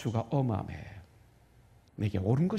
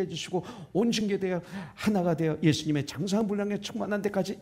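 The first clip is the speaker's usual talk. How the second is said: prayer; 2 semitones lower than usual. Shown as a demonstration. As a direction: pray it through in an unbroken, lowered voice. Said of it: "말씀 읽기 전에 기도하는 거죠".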